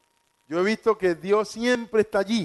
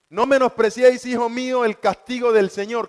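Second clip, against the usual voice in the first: raised preaching voice; 3 semitones higher than usual. Acted. Quoting God's words, raised.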